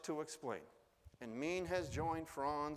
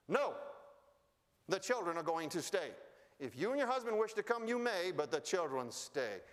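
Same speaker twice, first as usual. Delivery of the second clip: louder, higher, unbending refusal; firm refusal; 4 semitones higher, 4 dB louder than usual. Retold or imitated. Wife Ming rises up and refuses to send the children away, firm and louder. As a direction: plant your feet and refuse, no room for argument.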